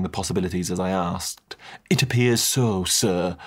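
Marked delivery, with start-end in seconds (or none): 1.9-3.4 Butler confirming. Acted. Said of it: "Butler confirmed".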